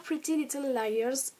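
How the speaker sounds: attempted American accent. Real, not acted. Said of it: "désolée pour mon accent".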